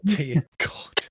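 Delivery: usual speaking voice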